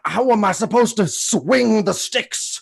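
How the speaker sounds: loud Scottish brogue; Sean Connery impression. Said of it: "Uh, Sean Connery".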